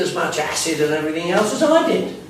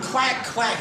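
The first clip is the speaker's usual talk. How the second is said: mock quack; 7 semitones higher than usual. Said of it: "he went".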